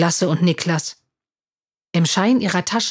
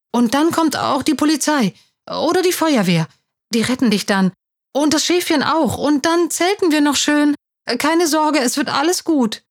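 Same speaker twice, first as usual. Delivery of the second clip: higher-pitched, animated reassurance; encouraging; 8 semitones higher than usual. A narrator's reading. Niklas reassures his sinking friend, encouraging. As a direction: talk up hope for a friend. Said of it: "versuchte ihm Mut zu machen".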